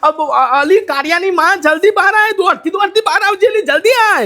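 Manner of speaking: high, urgent call to the wife indoors. Acted. Husband calling his wife to come out quickly, urgent call. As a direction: call her out of the house in a hurry.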